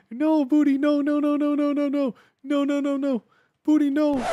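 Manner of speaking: high, loud, laughing no-no-no; laughing high shout. Real, not acted. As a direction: shout it out while cracking up. Scolding a TTS voice, laughing.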